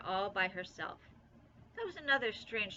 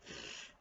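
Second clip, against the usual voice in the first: raspberry; 13 dB quieter than usual. A narrator's reading. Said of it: "stick out her tongue and say".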